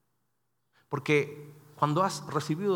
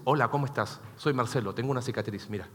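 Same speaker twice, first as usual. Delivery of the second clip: mock self-pitying introduction; 5 semitones lower, 4 dB quieter than usual. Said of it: "hay gente que, que hace de esas cicatrices".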